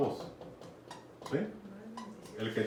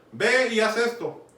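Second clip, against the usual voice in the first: father's order; 7 semitones higher, 5 dB louder, slower than usual. Retold or imitated. Father giving son an order.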